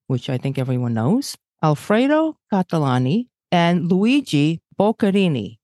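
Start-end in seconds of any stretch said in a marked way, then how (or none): 1.6-5.6 put-on light Brooklyn Italian accent on names. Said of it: "I'm trying my best Brooklyn Italian accent".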